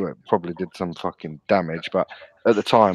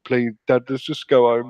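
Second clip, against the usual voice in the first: put-on higher, urgent begging of a scared kid; desperate pleading; 3 semitones higher than usual. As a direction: beg your dad to turn back. Begging dad not to go.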